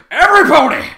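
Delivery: very loud, drawn-out scream; long shouted insult. A narrator's reading. Trevor screams at every pony, full force. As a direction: hold the yell as long as the breath lasts.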